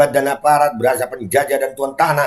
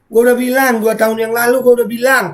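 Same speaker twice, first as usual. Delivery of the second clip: louder, higher, indignant; angry told-you-so; 7 semitones higher, 4 dB louder than usual. Real, not acted. Scolding viewers who ignored his warning, loud and angry. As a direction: hammer home that you warned them.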